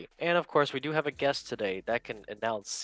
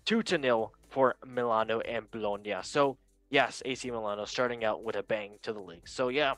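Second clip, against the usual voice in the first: Chris Pratt voice. Retold or imitated. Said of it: "I forgot to do the Chris Pratt voice again".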